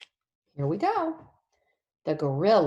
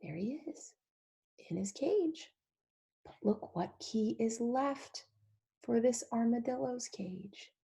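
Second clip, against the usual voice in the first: hushed; 3 semitones higher, 6 dB quieter than usual. Acted. Hushed aside continues.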